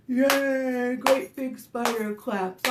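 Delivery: loud big-creature cheer; great big spider voice. Acted. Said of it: "my great big spider voice".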